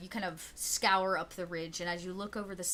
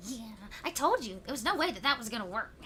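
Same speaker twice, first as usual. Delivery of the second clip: goblin voice; 3 semitones higher than usual. Acted. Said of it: "And one of them's like".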